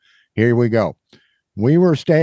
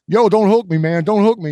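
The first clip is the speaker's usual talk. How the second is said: high-pitched imitation of an agitated New Yorker; mock New York accent; 9 semitones higher, 3 dB louder than usual. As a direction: warn him off in a bad New York accent. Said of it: "I am butchering the New York accent".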